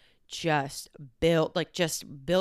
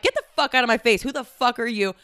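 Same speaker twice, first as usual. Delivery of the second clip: fast, raised, angry; angry retold yell; 4 semitones higher, 4 dB louder than usual. Throwing the friend's rude guest out of her face. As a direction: push the words out at her. Shoving girl out.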